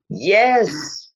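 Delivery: ordinary delivery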